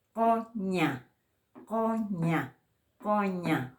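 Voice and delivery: COÑA with the first sound made back in the throat; throaty fricative Q. Shown as a demonstration. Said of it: "pronunciando con la glotis".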